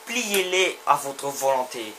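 declaimed game text. Acted. Declaims game power description.

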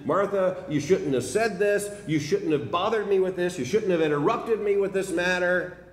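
dismissive rebuke. Pretend. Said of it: "not just a dismissive response".

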